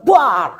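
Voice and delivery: drawn-out "bwaar" of flames bursting; imitated fire burst. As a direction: imitate petrol catching fire. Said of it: "Seperti bensin tersiram api".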